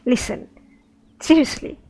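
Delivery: loud, fed-up protest; exasperated adventurer. Acted. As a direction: complain like you're being played for a fool. Role-playing Sophia to the beggar.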